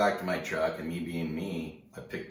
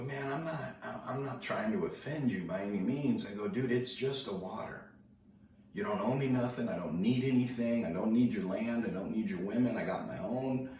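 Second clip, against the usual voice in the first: higher-pitched, insistent pleading; retold protest; 6 semitones higher than usual. Teller assuring angry stranger he meant no offence, urgent high-pitched protest. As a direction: act out defusing a quarrel, voice raised in pitch.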